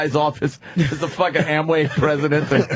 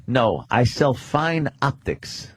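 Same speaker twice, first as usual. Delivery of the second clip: slow, measured optics salesman; imitated salesman; 3 semitones lower, slower than usual. Friend correcting the host about his binoculars, imitated salesman. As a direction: say it slowly, as a self-important correction. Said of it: "He goes".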